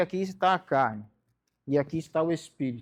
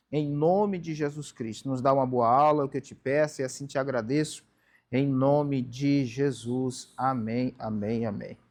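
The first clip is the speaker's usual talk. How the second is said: prayer. Acted. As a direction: pray over the class before the lesson. Opening prayer before class.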